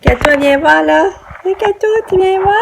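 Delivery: loud, high call; yelling across the room. Real, not acted. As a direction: call her over from the next room. Calling the child from afar.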